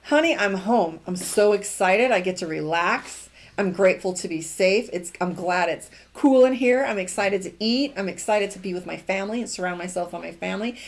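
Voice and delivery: mild cheerful gratitude; grateful reframe. Shown as a demonstration. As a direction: sound genuinely glad to be home. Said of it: "let's reframe it".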